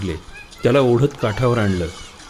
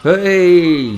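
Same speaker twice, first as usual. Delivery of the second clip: loud high whooping cry; 7 semitones higher, 6 dB louder than usual. A narrator's reading. Boys chasing the woman, loud whoop. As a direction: shout it gleefully.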